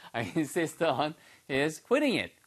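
slow spaced model read with a repeated phrase; slow English drill line for repetition; slow model sentence. Shown as a demonstration. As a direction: model it slowly and repeat the end. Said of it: "됐죠?".

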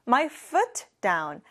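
"I put my bag down" said word by word; very slow model. Shown as a demonstration. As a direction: model the sentence slowly for repeating. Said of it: "다음 문장 볼게요". (따라 하도록 아주 천천히)

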